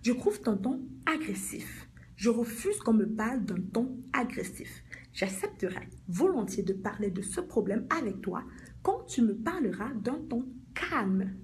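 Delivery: slow, deliberate firm statement; measured assertion with space between phrases. Shown as a demonstration. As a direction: set a boundary slowly and firmly. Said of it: "Tu dis ceci de manière ferme".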